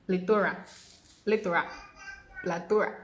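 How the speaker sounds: plethora loud, "PLI-tuh-ra"; repeated plethora drill; tries at plethora. Shown as a demonstration. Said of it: "That is plethora".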